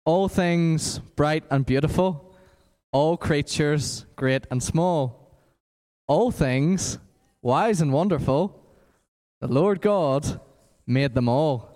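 slow, flat, bored recital; monotone voice. Shown as a demonstration. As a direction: drone the lyrics without any tune. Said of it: "boring, monotone voice".

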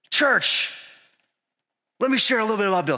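high, loud, hammed-up address to a congregation; speaking from the chest. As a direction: proclaim it proudly, mocking your own swagger. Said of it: "I'm speaking with my chest".

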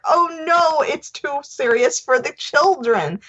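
high, slow mock fretting; mock worried voice. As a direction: fret about it in a high voice. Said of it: "then they're like".

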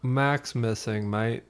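slow mock-Australian bandmate; lightly put-on Australian accent; Australian Will. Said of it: "My Australian, uh, Will, basically".

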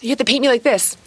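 put-on high-pitched kid's demand to mom; Abby. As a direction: mimic a child laying down orders. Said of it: "Abby's always like".

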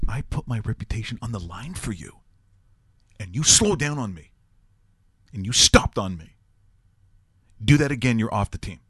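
retold dressing-down, building in force; beside himself. Coach scolds a player who slowed down on him, beside himself. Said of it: "Dick Vermeil is just beside himself".

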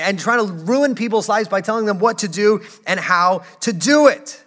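high, loud indignant protest; mock outraged objection. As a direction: voice the culture's outrage at God. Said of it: "and think".

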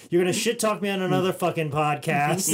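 loud, high flustered mock rant; mock outrage. Host botched the guest's name, mock-angry outburst. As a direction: blow up in exaggerated self-reproach.

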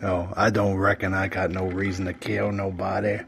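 lightly voiced Karl from Sling Blade; Sling Blade impression. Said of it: "that's from, uh, Sling Blade".

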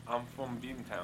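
put-on lightly done Boston accent; a hint of Boston accent, deadpan. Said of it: "Say that one".

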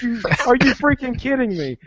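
are you serious, exasperated; retold disbelief.

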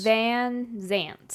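Van Zants said distinctly, with a clear TS ending; correcting pronunciation. Shown as a demonstration. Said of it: "Van Zams?".

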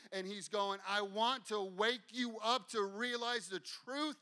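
sermon at full force; fiery preaching. Acted.

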